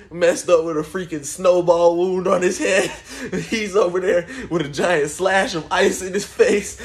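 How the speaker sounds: talking high through laughter; can't keep a straight face; laughing. Real, not acted. Teller to viewers about cousin's wound, laughing.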